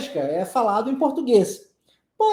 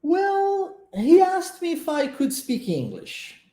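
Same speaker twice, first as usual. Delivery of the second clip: high, light model phrase with "Well" raised; high model delivery; 8 semitones higher, slower than usual. Shown as a demonstration. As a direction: say it high and drawn out, as the friend would. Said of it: "vamos pra frase". (frase modelo dita bem aguda, com "Well" alto)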